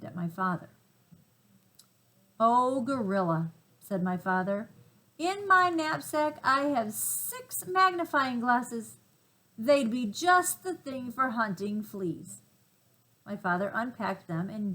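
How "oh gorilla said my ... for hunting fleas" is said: put-on eager explorer boy.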